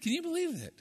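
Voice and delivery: high, incredulous joke question; mock amazement. Preacher teasing his congregation, in mock amazement. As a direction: feign astonishment at the idea. Joking that Americans can be content.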